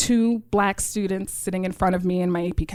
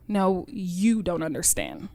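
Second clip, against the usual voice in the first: slow and soft, each word weighted; a mother gently correcting her naive child; quiet, firm mother; 3 semitones lower, 4 dB quieter than usual. Retold or imitated. Mom telling her daughter the compliment was really an insult, quiet and slow. She said to me.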